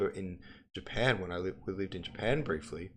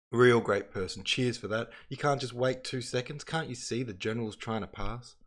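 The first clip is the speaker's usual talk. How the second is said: sarcastic scolding; 4 semitones higher, 4 dB louder than usual. Acted. Cossack sarcastic scolding, Aussie version.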